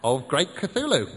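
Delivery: loud, proud declaration; proudly. Acted. Seth naming their master, proud and loud. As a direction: announce it with pride.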